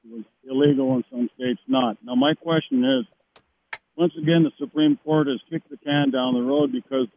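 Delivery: faint, off-mic caller; phone held away. Real, not acted. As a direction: voice fading from the phone. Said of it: "talk into the phone. We're losing you".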